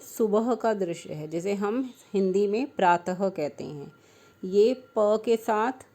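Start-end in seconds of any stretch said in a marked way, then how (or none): 4.4-5.9 slow teaching demo. Shown as a demonstration. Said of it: "ये आ का डंडा प्रा".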